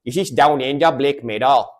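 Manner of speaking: playful put-on Aussie accent; imitated Australian accent. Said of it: "one of the accents I love".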